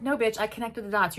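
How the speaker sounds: mock furious comeback; angry retort. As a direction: throw it back at her, offended. Will snapping at Abigail.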